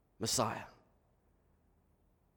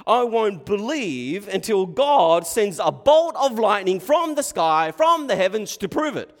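challenging Pharisee; 8 semitones higher, 9 dB louder than usual. Acted. Pharisee testing Jesus for proof, loud defiant challenge. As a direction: throw down a defiant challenge at high volume. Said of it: "to test Jesus".

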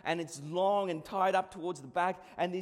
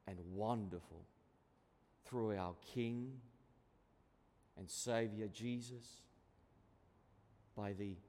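low, soft, unhurried prayer voice; 9 semitones lower, 6 dB quieter than usual. Acted. Pastor leading the congregation in prayer, low, hushed prayer. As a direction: pray it quietly and reverently, lower than speech. Opening prayer before sermon.

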